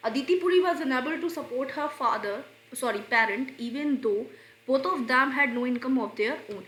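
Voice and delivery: slow, careful read of the sentence; slow dictation. Shown as a demonstration. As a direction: read it out word by word for students. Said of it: "reads example sentence slowly".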